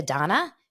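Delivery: Dana said as "DAH-na"; pronounced Donna. Shown as a demonstration. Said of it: "pronounced Donna".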